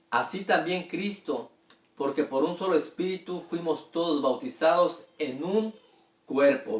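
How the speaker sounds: steady, measured Bible reading voice; scripture reading. Acted. Pastor reading scripture aloud to the congregation, measured and steady. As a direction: read the verse out to the church.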